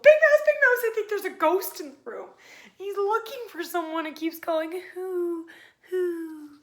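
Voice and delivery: high, loud panicked mouse; frightened yell. A narrator's reading. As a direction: yell for help, scared of a ghost. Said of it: "he yelled".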